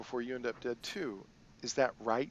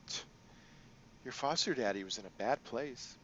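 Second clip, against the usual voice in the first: a hint of a sly crime boss; lightly voiced, playful boss lady; Kindly Ching.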